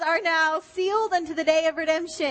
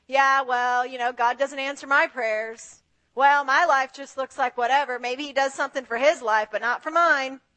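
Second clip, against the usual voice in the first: mock grumbling; 4 semitones lower than usual. Grumbling believer voiced.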